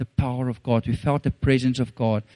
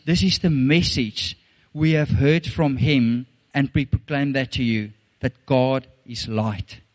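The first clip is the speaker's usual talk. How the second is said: scripture reading. Acted. Reads scripture aloud slowly.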